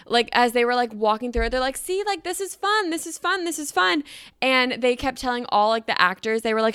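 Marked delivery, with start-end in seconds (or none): 1.8-4.0 retold coaxing reassurance. Friends reassuring the crying girl.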